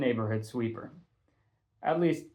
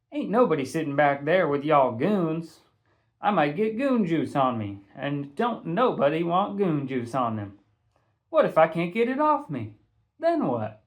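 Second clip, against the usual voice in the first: louder, higher sassy rant; sassy refusal; 4 semitones higher, 3 dB louder than usual. Acted. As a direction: roast the boys with attitude. Patty sassing the boys.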